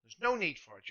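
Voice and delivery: put-on angry boy's scolding. Pip scolds the smelly man, rising to a loud shout. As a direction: tell him off like an indignant kid.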